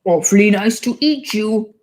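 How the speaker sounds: put-on British accent. Mom reads a potty book to her daughter, British accent. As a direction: read it like a cheery British picture book.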